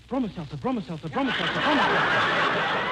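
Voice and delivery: conductor's call. Acted. Imitates a train conductor's call.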